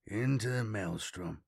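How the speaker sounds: soft, hushed words; whispered. A narrator's reading. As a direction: breathe it under your breath. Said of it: "Matthias whispered".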